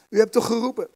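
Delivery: read-aloud mild puzzlement; puzzled question. A narrator's reading. Boy insists he was called.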